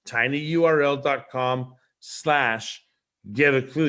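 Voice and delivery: slow, careful dictation of the link; slowly repeating the web address for viewers; slow spelled-out repeat. Shown as a demonstration. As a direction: read the address slowly so they can type it. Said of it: "Very simple".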